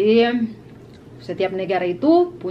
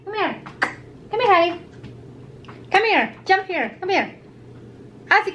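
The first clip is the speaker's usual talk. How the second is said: talking to a cat; 12 semitones higher than usual. Real, not acted. Calling the cat over.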